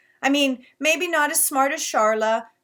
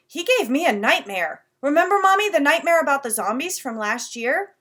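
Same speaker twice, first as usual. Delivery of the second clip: little brother; 5 semitones higher, 7 dB louder than usual. Acted. Little brother voiced excitedly.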